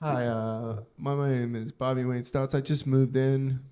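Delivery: mock neighbor confession. Mock sex offender introducing himself.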